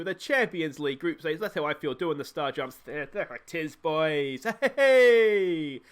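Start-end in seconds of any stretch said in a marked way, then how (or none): 4.8-5.8 celebratory shout. Real, not acted. Celebrating the win.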